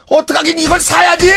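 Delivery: high, loud matter-of-fact verdict; blunt punchline. Retold or imitated. Owner telling the customer to just buy it, loud and blunt. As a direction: deliver the verdict like it's obvious.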